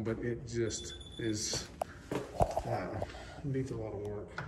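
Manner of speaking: muffled behind a face mask; talking through a mask. Real, not acted. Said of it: "Sorry, I'm talking with my mask on".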